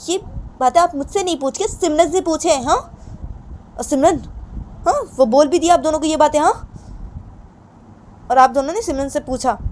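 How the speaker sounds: complaining daughter. Acted. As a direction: pout and argue back at papa. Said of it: "तो सुनैना अपने पापा को बोलती".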